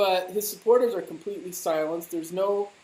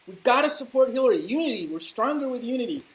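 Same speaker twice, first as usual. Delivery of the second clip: higher-pitched mock enthusiasm; gullible supporters; 5 semitones higher, faster than usual. Radio listeners rallying for Hillary, mock enthusiasm. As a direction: parrot it like an eager party loyalist. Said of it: "Thom Hartmann listening people go".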